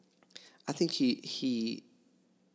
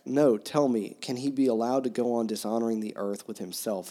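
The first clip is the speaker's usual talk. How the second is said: louder, read-aloud outrage, not fully acted; mock furious demand; 4 dB louder than usual. Dmitry demands of the monks, mildly furious. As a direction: challenge the room, half-performed anger. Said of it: "nearly beside himself with fury".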